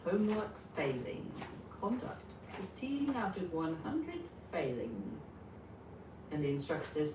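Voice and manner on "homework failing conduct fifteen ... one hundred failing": robot voice. Acted. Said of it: "the A I robot says".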